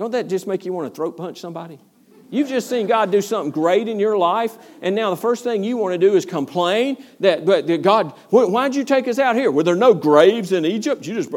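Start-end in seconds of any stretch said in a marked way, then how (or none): 8.3-11.1 loud, mock scornful, sarcastic, disdainful griping. Retelling the people's complaint to God, imitating sarcastic disdain. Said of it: "you hear the sarcasm".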